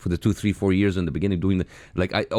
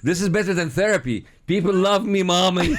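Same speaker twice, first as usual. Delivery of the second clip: mock childish glee; 11 semitones higher, 4 dB louder than usual. Guest jokes about ego, laughing high.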